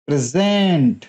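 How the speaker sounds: प्रेजेंट stressed on the first syllable प्रे; word stress demo. Shown as a demonstration. Teacher demonstrating noun stress on प्रेजेंट to students. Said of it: "हम जिस पे बल दे रहे हैं".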